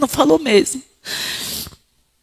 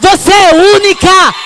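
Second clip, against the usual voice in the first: higher, louder shout; shouted affirmation; 9 semitones higher, 7 dB louder than usual. Real, not acted. Preacher shouting to each woman she is unique. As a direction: shout it as a final cry.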